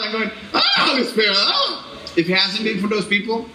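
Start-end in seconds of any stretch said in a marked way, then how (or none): 0.6-1.9 mock panicked high cry; freaking out. Stranded dad calling on the Holy Spirit, freaking out. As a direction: yelp for help in comic panic. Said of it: "I'm freaking out".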